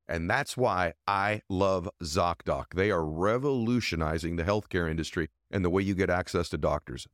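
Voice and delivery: measured, deliberate ad-read delivery; sponsor ad read. Real, not acted. Reads a second sponsor ad.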